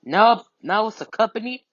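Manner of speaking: mock screaming. Retelling dad scolding his child over messes, mock screaming. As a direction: imitate a fed-up dad's rant, mildly. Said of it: "he kept screaming at me".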